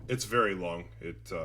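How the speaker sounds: distant, off-mic voice; talking from across the room; far from the mic. Real, not acted. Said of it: "you sound like you're super distant".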